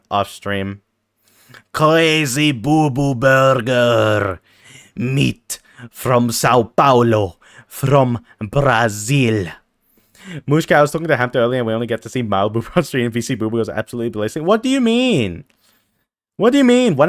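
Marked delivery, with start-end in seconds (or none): 1.7-9.5 very slow, drawn-out product pitch; slow dramatic announcement. Pretend. 14.4-17.0 high-pitched indignant question; high mock offense.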